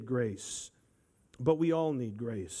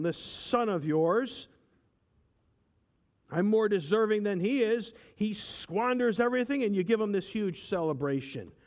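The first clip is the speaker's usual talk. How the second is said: resentful brother; 5 semitones higher than usual. Retold or imitated. Preacher voicing the jealous older brother, indignant. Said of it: "But he's putting him down".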